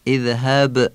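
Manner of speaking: اذهب with a small bounce on final b; qalqala on ba. Shown as a demonstration. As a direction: release the ب of اذهب with a little echo. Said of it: "قلقلهٔ با رعایت بشه".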